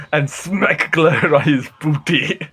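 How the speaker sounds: slow, drawn-out pirate line; light pirate swagger, slow. Pretend. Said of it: "we started to speak like pirates".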